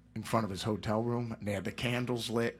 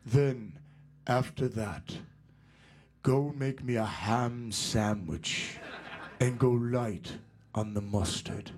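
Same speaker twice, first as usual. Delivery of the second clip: lightly voiced Ozzy ordering, slow; slower than usual. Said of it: "And he goes".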